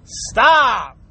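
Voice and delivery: sharp loud "Stop."; shouted stop. Real, not acted. Scolding shoppers holding up the line, sharp loud stop. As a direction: cut them off hard.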